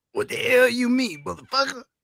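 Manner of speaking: exaggerated voice, pushed high. Speaker tries out a voice he's been working on: put-on Black man voice. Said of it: "working on my black man voice".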